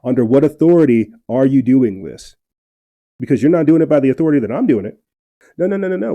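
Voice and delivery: loud, fast challenge; fired up. Real, not acted. Ranting at the governor over his authority, loud and fired up. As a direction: demand it, worked up and rising. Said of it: "this is probably why I'm getting fired up".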